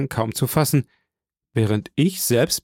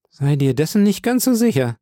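sulky, half-teasing reproach; pouty; 5 semitones higher, 3 dB louder than usual. Acted. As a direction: pout the words at him. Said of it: "schmollte sie".

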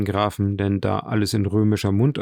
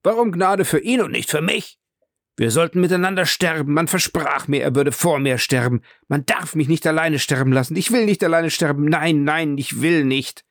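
desperate wailing; 6 semitones higher than usual. Acted. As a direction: beg like a condemned man who will not die alone. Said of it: "krümmte sich und heulte und brüllte". (hoch, laut und gehetzt, verzweifelt flehend)

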